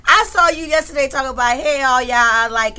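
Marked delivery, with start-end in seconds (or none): 1.6-2.8 her own greeting voice, loud; a casual loud hello; Demetra voice. Retold or imitated. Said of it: "in my Demetra voice".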